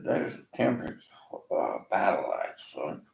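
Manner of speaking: hushed, voiceless dad's warning; whispered warning. Retold or imitated. Dad warning his son about the temperance crowd, whispered. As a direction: breathe it like a secret warning.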